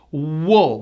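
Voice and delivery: wool with a strong, drawn-out W; wool, the W firmly rounded. Shown as a demonstration. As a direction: lean on the W at the start of wool. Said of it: "with a strong W".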